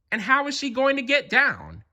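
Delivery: worried dog voice staring up at a tree; Pluto wondering. Acted. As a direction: wonder aloud, high and hushed. Pluto wondering about Molly.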